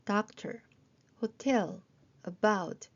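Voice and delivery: doctor on DOC, hotel on TEL, about on BOUT; word stress brought out. Shown as a demonstration. Teacher modelling stress in doctor, hotel, about. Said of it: "이렇게 강세까지 살려서".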